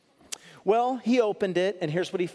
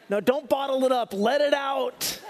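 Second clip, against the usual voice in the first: laughing while urging, loud and high; the pastor laughing after the joke, telling them to let it out; 7 semitones higher, 4 dB louder than usual. Real, not acted. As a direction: chuckle through it, drawing out let it out.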